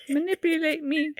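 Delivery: laughing through the words. Acted. Laughing repeat.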